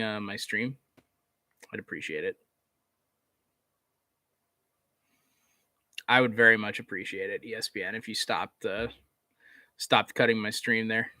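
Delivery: mock polite. Real, not acted. Asks ESPN to stop cutting stream.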